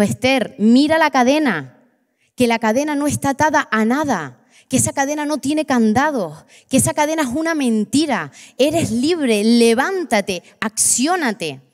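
más aguda, voz de Jesús ligeramente actuada, firme. Retold or imitated. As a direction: animar con firmeza a levantarse. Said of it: "él cogió y me dijo". (Jesús le ordena a Esther que se levante, firme y alentador)

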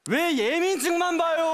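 mock-outraged comic complaint; indignant protest. Customer protests being asked for ID.

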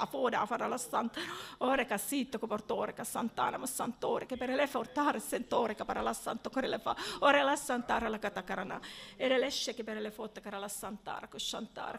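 flowing rhythmic glossolalia, fading to a near whisper; speaking in tongues. Real, not acted. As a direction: pour out syllables in a steady prayer stream. Speaking in tongues during prayer.

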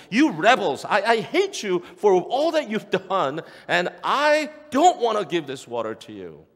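angry outburst. Retold or imitated. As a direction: spit out your resentment. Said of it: "out of anger".

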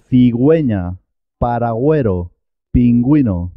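cigüeña, paragüero, pingüino with a clear gw sound. Shown as a demonstration. Teacher showing the diéresis makes U heard, sounded ü. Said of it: "la U se, se escucha, suena".

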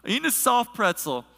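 lightly put-on voice of a pastor friend; Brian. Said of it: "this is the way he talks".

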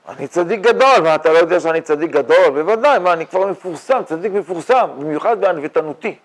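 loud, high self-important bragging; mock boasting. Teacher parodies a man who thinks himself a great saint, mock boasting.

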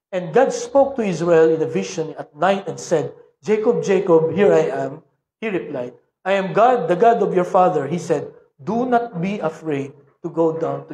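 scripture reading. Acted. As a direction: read the verses out to the congregation. Pastor reads Bible passage aloud.

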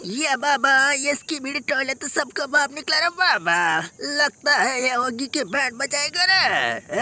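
drawn-out cartoon bluster, slowing at the end; blustering cartoon figure. Character warning that the monster will beat Oggy, blustering cartoon voice. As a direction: stretch the last phrase in mock awe.

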